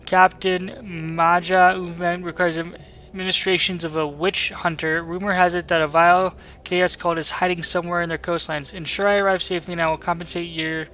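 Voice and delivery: lightly voiced worried merchant; voiced ship merchant. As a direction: read it as a nervous trader. Reads captain request aloud.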